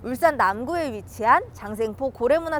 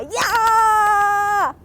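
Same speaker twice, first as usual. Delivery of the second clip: bright squeaky sing-song welcome; 8 semitones higher, 5 dB louder, much slower than usual. Acted. Cheerful exclamation, far, high.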